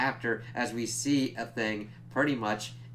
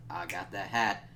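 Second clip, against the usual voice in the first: gloating whisper; 5 semitones lower, 5 dB quieter than usual. Retold or imitated. Gloating quote of the winner.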